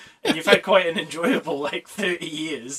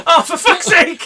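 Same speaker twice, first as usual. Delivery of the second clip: laughing curse; 13 semitones higher, 11 dB louder than usual. Retold or imitated. Mocking the doctor's reaction.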